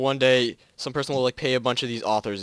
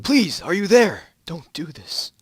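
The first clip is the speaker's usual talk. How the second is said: loud, high, slow pleading yell; desperate shout; 6 semitones higher, 6 dB louder, slower than usual. Acted. Twilight shouting into the radio, slow loud pleading. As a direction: beg at full volume for an answer. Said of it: "Twilight was now shouting".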